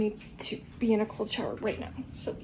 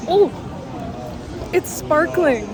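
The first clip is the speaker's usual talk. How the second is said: delighted surprise; 3 semitones higher, 5 dB louder, slower than usual. Real, not acted. Surprised by the sparkling drink.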